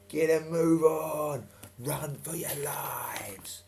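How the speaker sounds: high loud call fading to a hushed slow end; shouting. Retold or imitated. Captain on the wall urging the children, call then hush. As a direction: urge them on, then let it die away. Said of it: "shouting to them children".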